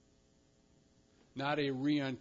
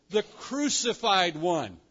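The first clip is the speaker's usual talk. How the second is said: slow, louder weight on "crucified"; emphatic; 3 semitones higher, 5 dB louder, slower than usual. Acted. Angel names the crucified one to the women, emphatic. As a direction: drive home "the crucified one" slowly. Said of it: "he says with emphasis".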